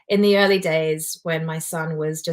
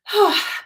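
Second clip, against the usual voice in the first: high, loud sigh of real emotion; emotional sigh; 6 dB louder than usual. Real, not acted. Remembering late teacher, real emotional sigh. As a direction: let the feeling escape in a sigh. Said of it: "oh, that makes me emotional".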